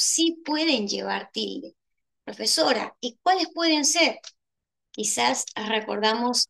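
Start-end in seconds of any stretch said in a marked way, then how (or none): 2.2-4.2 lightly voiced student, higher questioning tune; student asking. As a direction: put a pupil's curious question to the teacher.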